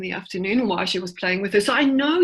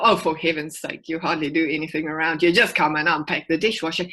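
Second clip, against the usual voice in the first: exasperated nag; 3 semitones lower, faster than usual. Retold or imitated. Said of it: "If I go".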